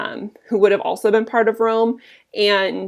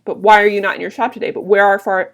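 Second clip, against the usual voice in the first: mildly upset Flavius; 5 dB louder, faster than usual. Acted. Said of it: "And Flavius says".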